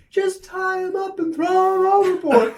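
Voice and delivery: very high strained mock yell; hammed-up crook hollering an order; arguing crook. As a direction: yell as if over a speedboat engine. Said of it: "imagining that they're having this conversation".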